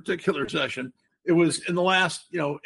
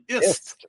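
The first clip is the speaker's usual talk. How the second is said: "ist" said alone and stressed; 4 semitones higher, 4 dB louder than usual. Shown as a demonstration. Host correcting his word to the ending ist, stressed. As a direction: hit the ending "ist" firmly to set it against "ism". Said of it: "not ism".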